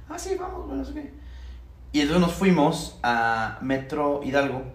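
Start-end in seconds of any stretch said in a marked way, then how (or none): 0.1-1.1 eager high yes. Retold or imitated. Own eager reply, voice raised.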